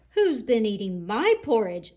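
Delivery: a mild mock shout, lightly voiced mama; medium-sized mama rhino, not too big. Mama Rhino finding her porridge touched, mild mock shout. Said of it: "shouted Mama Rhino in her medium-sized voice".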